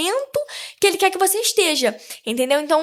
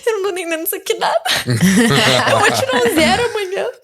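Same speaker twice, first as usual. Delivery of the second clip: laughing despair; faster than usual. Retold or imitated. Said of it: "Falei assim".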